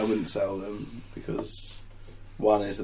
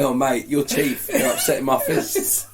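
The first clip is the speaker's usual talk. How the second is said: put-on Pompey accent; 3 semitones higher, 4 dB louder than usual. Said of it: "is that how you go around talking to people".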